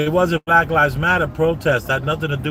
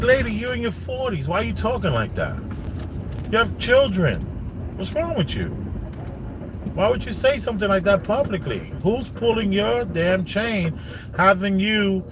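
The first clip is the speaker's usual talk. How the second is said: higher-pitched incredulous telling-off; exasperated scolding; 5 semitones higher than usual. Pretend. Vlogger takes an absent celebrity to task, exasperated. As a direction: scold her in disbelief, pitch swooping up.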